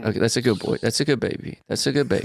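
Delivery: put-on soft, hushed cooing to a baby; soothing baby talk. Host soothing the crying adult baby, soft cooing. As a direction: settle the baby down gently.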